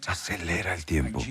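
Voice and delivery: very soft, low plea; hushed prayer. Retold or imitated. Praying to the Father in the morning, very soft and low. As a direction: breathe the words softly like a private prayer.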